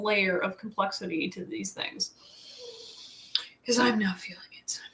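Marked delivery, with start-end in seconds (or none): 3.7-4.8 whispered aside. Real, not acted.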